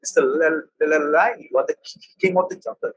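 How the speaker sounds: nervous stuttering monkey, catching on each word; a lightly voiced, nervous stutter; stammering monkey. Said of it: "he started stammering".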